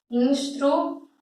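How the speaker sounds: "Instruir" broken into ins-tru, i; syllable by syllable. Shown as a demonstration. Teacher retrying the syllable split, syllable by syllable. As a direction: separate the syllables of "Instruir" with gaps. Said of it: "Quando eu separo".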